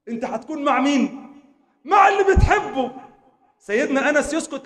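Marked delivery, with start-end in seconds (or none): 1.8-2.9 much higher, louder shout; emphatic cry. Acted. Preacher answering his own question, shouting. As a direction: hit the answer hard.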